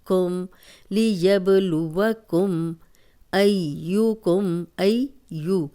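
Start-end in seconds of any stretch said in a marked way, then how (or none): 0.9-2.7 لیبلوکم slowly, short پیش and زبر, ب bounced; slow recited demo. Shown as a demonstration. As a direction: recite لیبلوکم without stretching the vowels. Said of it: "اب پیش اور زبر ذرا بھی لمبی نہیں ہوگی". (لیبلوکم، پیش اور زبر چھوٹی رکھ کے)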